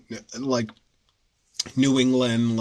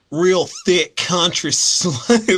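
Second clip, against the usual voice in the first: mock country accent; 6 semitones higher, 6 dB louder, much slower than usual. Mimicking exaggerated country American accent.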